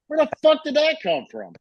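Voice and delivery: mock shock. Telling friends about a stray beard hair, high mock disbelief. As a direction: act baffled at the hair.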